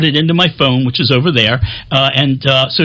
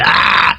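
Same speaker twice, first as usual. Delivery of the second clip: breathy open-mouthed "ah"; imitated gaping mummy. Man showing viewers the mummy's gaping mouth, imitated gasp. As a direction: mimic a mouth frozen wide open.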